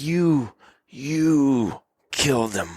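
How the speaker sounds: put-on charming storyteller, stretched words; Vasily. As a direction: draw each word out to sell the tale. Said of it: "he's trying to sell me".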